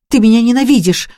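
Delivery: put-on sick girl shouting at the maid. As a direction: throw the hate back at her in a cry. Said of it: "закричала Аннет".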